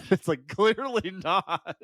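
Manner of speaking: slow, drawn-out deadpan; dry sarcasm. Real, not acted. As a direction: stretch it out, dripping with sarcasm. Sarcastic comment on movie line.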